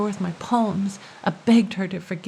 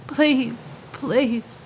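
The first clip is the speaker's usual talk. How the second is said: higher, begging please; pleading; 4 semitones higher than usual. Acted. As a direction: beg her forgiveness. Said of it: "That's all I could say".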